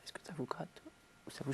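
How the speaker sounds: sudden, fast, very hushed whispered aside. Imitating a man who suddenly lowered the sound, whispered. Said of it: "il arrivait à chuchoter comme ça".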